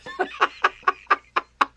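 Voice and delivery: high, airy run of laughter. Real, not acted. Streamer reacts to a Braves fan's message, laughing. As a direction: laugh out in a quick string.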